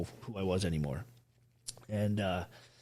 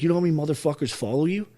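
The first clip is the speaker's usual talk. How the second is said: higher, louder and fast, like a fired-up sergeant; imitating a friend shouting sense into him; retold pep yell; 6 semitones higher, 6 dB louder than usual. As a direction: pump him back up with a half-acted shout. Buddy yelling him back up.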